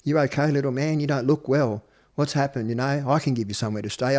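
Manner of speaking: a hint of a kindly butcher soothing a kid; gentle big man. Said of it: "but talks real gentle".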